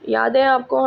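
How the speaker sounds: usual speaking voice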